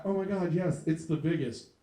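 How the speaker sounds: hammed-up breathy praise from a woman; mock woman flattering. Comic mocking women's flattering lie, fake gushing. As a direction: fake gushing over his size. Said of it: "you've all said this lie".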